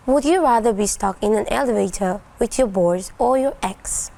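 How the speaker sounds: robot voice, mechanical and even. Pretend. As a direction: read it like an AI. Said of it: "activate me".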